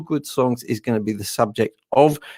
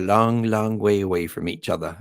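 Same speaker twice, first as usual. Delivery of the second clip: southern English accent, dropping lower; 4 semitones lower, 4 dB quieter than usual. Real, not acted. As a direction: slip briefly into southern English. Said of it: "I said that in a southern English accent".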